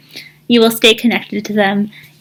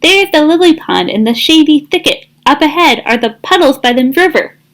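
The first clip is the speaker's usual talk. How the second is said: excited calling out; 6 semitones higher than usual. Acted. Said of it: "he shouted out".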